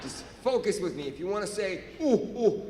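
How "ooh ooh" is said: small high "ooh ooh" hoot; demonstrated hoot. Shown as a demonstration. Teaching the crowd the noise in a workshop, light hooting. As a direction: show the noise lightly, pitched up. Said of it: "how to make that noise".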